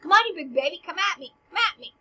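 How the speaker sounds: fast, goading taunt. Acted. Hamlet goading Laertes to attack, cocky taunt. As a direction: egg him on like a schoolyard fighter.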